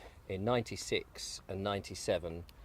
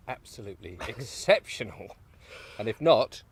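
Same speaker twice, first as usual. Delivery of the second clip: mock outrage; 7 semitones higher, 14 dB louder than usual. Mock demanding host, getting louder.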